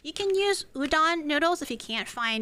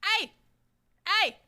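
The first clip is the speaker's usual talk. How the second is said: voicing the dog; 7 semitones higher, slower than usual. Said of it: "she's like".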